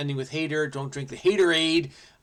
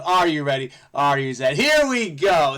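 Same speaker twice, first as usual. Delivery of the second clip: hyped countdown; 6 dB louder than usual. Acted. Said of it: "show countdown".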